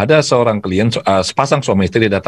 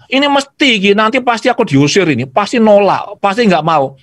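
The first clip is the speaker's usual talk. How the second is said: father imagining his son refusing him; father's voice; 9 semitones higher than usual. Retold or imitated. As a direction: grumble like a dad expecting rejection. Father predicts rejection.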